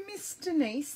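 ordinary talk, nothing marked

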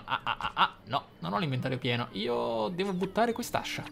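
ordinary talk

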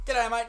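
"G'day, mate" run together as one word; "G'day, mate" squashed into "g'daymate"; quick Aussie "G'day, mate" with no gap; nice and quick. Shown as a demonstration. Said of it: "nice and quick".

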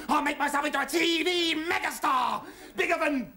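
high, shouted boast; building defiant declaration; grandiose vow. Acted. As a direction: proclaim it like a would-be megastar. Richie's boastful vow of revenge.

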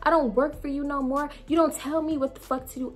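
high, repeated curses; defiant cursing. Retold or imitated. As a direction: fling each curse at him. Retelling cursing out Jake.

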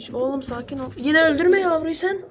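scolding the bird. Real, not acted. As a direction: tell the pigeon off for hurting its chick.

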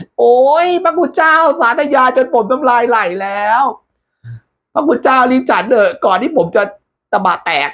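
high whiny voice, mouth watering; high messenger voice. Acted. Messenger telling monk to hurry, high whiny. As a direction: beg him to eat fast, high.

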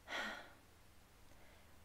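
a long breathy sigh, barely voiced. A narrator's reading. Girl sighing at her mother's words, a soft sigh. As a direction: let all the air out in a weary sigh. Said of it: "Sulwe sighed".

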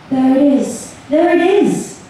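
high, rising narrated shout; a child's shout, kept in check; mild excited shout. A narrator's reading. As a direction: call it out high, without real volume. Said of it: "shouted Alma".

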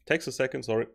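words right after a sip of a drink; swallowing after a sip; just drank. Real, not acted. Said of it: "so sorry for drinking".

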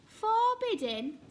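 high, loud indignant echo; affronted frogs, rising pitch; angry. A narrator's reading. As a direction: throw it back as an outraged question. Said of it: "said the frogs angrily".

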